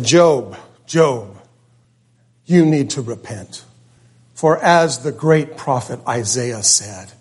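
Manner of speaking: low, slow mock prophet rebuke sinking to a whisper; stern rebuke. Eliphaz rebuking Job in the play, slow solemn rebuke. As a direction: preach it slow and solemn, fading off. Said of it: "And so I said".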